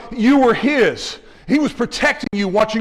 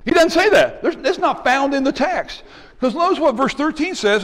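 emphatic preaching; 5 semitones higher than usual. Real, not acted. Preacher refutes imagined line.

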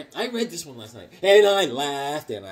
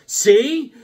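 mock told-you-so; 9 semitones higher, 9 dB louder than usual. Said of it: "My wife goes".

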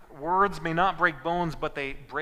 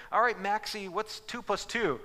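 higher, playful quiz to the family dog; coaxing the dog; 5 semitones higher than usual. Retold or imitated. Family showing guests the dog, coaxing higher voice. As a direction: tease the dog like a show host.

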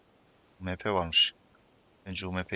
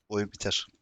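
laughing; slower than usual. Real, not acted. Laughs after shouting.

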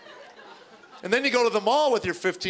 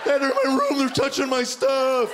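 put-on teen yell; 6 semitones higher, 3 dB louder than usual. Son yells at brothers, steady teen yell. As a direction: shout at the brothers, less squeak. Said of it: "yelling at him".

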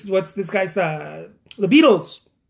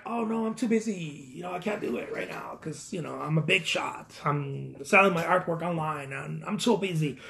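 soft, put-on busy act; self-mocking excuse; 3 semitones lower, 8 dB quieter than usual. Artist turning down exhibit invitations as too busy, self-mocking excuse. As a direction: imitate your old self begging off quietly. Mocks his former excuses.

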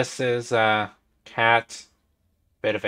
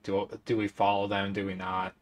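low, soft self-directed mumble; quiet, lowered voice, thinking aloud; muttering to himself; 6 semitones lower, 12 dB quieter than usual. Acted. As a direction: mutter the question under your breath. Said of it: "I hear Alwyn muttering to himself".

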